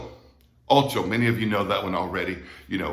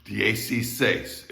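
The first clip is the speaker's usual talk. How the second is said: drawn-out, syllable by syllable; slower; slower than usual. Shown as a demonstration. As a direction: say the number slowly for learners. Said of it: "I'll do it slower".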